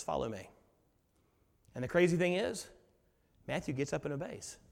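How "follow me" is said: hushed call. Acted. Repeats Jesus's call, even softer.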